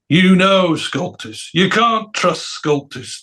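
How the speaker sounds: mock pompous complaint, slowly; acted grumbling. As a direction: draw it out with heavy disapproval. Acts Brian complaining about sculptors.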